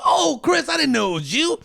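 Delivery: high loud oh, Chris, then relief; mock relieved surprise. Victim fooled by a killer, high relieved gush. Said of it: "You go".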